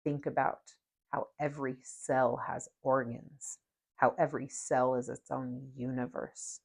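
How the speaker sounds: slow, calm meditation voice; guided meditation. Acted. Guiding viewers through a mirror meditation, slow and calm. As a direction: ease listeners into looking at themselves, slowly.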